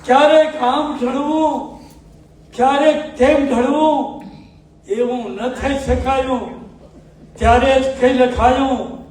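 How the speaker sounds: measured, sung-through poetic recital with pauses between half-lines; ghazal recitation. Acted. Poet reciting his ghazal to a mushaira audience, declaiming.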